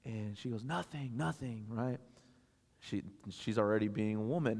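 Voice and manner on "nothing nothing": soft, small imitation of a child's denial; retold brush-off. Tearful daughter answering dad, retold soft brush-off. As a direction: quietly dodge the question, imitating her.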